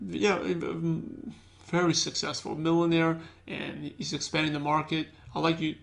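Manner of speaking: unexcited pitch. Shown as a demonstration. Recruiter demoing a boring invite to a prospect, dull and soft. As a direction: mumble the invite like you don't care. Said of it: "That doesn't get people excited".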